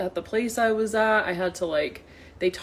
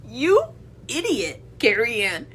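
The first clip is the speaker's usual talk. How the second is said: high, loud mocking glee; loud gloating; 4 semitones higher, 8 dB louder than usual. Real, not acted. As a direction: crow over her, loud and slow. Loud gloating rant at Carrie Ann.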